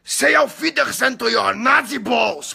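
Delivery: slow, high, furious movie shout; Stiglitz shout. Retold or imitated. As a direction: bellow it like a vengeful soldier. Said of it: "fazer igual o Stiglitz".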